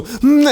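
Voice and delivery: high, strained hum of pain; imitated pained grunt. Tooth pain peaking mid-flight, imitated pained grunt. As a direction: squeeze out a high mock-agony "mm". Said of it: "so I just go".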